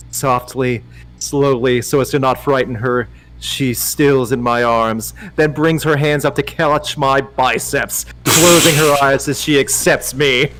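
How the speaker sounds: measured romance audiobook narration; story narration. Acted. Narrator reading a romance to Dom, measured storytelling. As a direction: read the love scene deliberately. Reads a romance novel aloud.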